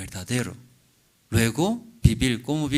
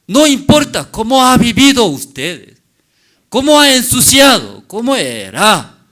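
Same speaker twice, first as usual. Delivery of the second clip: loud, high, sung-out preaching call; God's loving call; 6 semitones higher, 11 dB louder than usual. Acted. God calling sinners home through the preacher, loud sung plea. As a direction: proclaim it like a chanted invitation.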